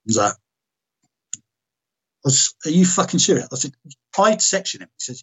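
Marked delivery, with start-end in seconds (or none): 2.6-3.5 high-pitched, indignant disbelief; retold incredulity. Retold disbelief at the doctor's order. 4.2-4.9 high-pitched, indignant disbelief; retold incredulity. Retold disbelief at the doctor's order.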